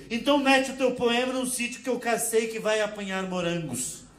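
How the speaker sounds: slow, laughing Portuguese finisher; woman's final comeback, slow and laughing in Portuguese accent; mock Portuguese accent. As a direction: land the last word slowly, Portuguese accent, laughing.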